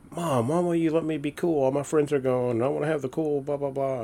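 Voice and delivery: put-on a kid whining to his mom about cheap shampoo; whiny kid. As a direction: imitate your younger self begging mom. Retold childhood whine at mom.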